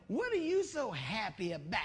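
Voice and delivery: hammed-up sassy disbelief; mock sassy challenge. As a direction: imitate a coworker put out by cheerfulness. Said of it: "They gotta do that neck".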